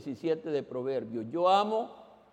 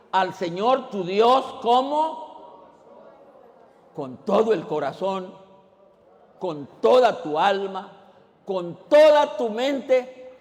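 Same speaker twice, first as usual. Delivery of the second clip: preaching at full force; 6 semitones higher, 8 dB louder than usual. Acted. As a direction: proclaim each line of the commandment. Preaching the great commandment.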